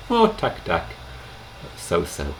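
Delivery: answering how are you, unbothered; casual so-so. Shown as a demonstration. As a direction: shrug it off the Czech way. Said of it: "quite authentically".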